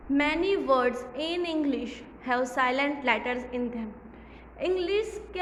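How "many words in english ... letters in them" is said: reading the English line out slowly, word by word; slow read-aloud. Shown as a demonstration. Teacher reading the book slowly to children. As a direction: spell each word out for the class. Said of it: "reads textbook line slowly".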